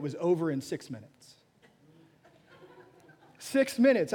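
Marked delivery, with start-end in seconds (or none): 3.4-4.1 amazed. Real, not acted. Marvels at his short sermon.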